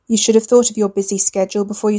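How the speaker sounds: flat matter-of-fact threat; monotone enforcer. Acted. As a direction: deliver it flat, no emotion. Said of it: "The man's monotone was matter of fact".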